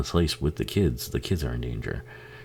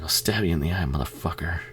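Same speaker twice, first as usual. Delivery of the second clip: menacing threat; 2 semitones higher, 4 dB quieter than usual. Retold or imitated. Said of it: "He's like".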